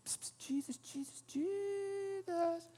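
hushed, timid calling of Jesus; mock polite whisper of a name. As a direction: whisper his name politely, not daring to wake him. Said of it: "They didn't just go".

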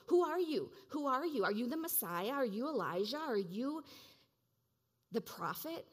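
loud, demanding questions fired at you; world shouting. Retold or imitated. The world shouting at the listener, loud demanding questions. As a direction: hammer each question like a crowd yelling. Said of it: "the world is shouting, surrounding you and shouting".

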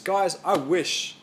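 slow, softening plea that fades to near hush; gentle plea from Jesus. Retold or imitated. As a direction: speak it as a tender appeal to friends. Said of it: "He says".

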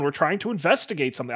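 put-on a quick, light Scottish accent on "We're trying to investigate something.". Boy telling the dog mascot off, quick Scottish accent. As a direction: brushing off the mascot, fast in a mock Scottish accent. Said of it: "I'm not doing the accent".

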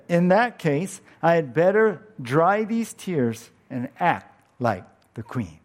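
put-on resolute little girl. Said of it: "she said".

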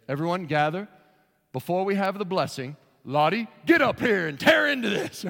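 hammed-up host calling the dog up; imitating a silly host inviting the dog first; mock announcement.

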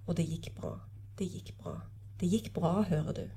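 understated, soft-ending novel reading; literary reading. A narrator's reading. Lecturer reading the reunion at the hospital bed, subdued literary reading. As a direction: read the scene with quiet restraint.

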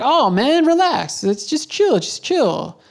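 high, dismissive mock drawl of a drunk stranger; mocking drunk guy. Mimicking the drunk Australian telling him to chill, high and dismissive. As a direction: toss it off like a smug drunk brushing you off. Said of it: "he's like".

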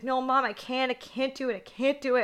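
lightly put-on panicky whimper; mock crying. Imitating Judy Greer's character crying to her mom, mock tearful. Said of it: "and she's crying".

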